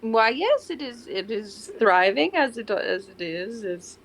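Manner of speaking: lightly put-on French accent; a hint of French for the character; loose, improvised French accent. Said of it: "get a French accent".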